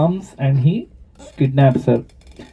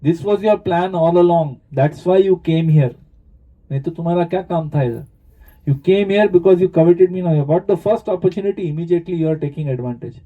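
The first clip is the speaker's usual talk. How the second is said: angry accusation; much faster than usual. Retold or imitated. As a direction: rattle off the accusations in mock fury. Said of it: "she gets very angry and she starts accusing".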